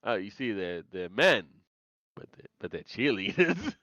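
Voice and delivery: put-on wrestling-show host voice; mock wrestle-talk host; wrestle talk bit. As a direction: do a hammed-up wrestling commentary bit. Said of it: "doing the fucking, uh, wrestle talk bit".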